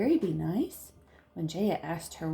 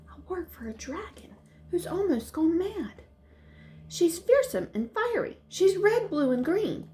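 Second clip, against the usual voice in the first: higher, dramatic fairy telling a tale; 9 semitones higher than usual. Acted. Fairy warns Jaya about the dragon in a higher, dramatic voice. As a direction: build up the dragon's fearsomeness.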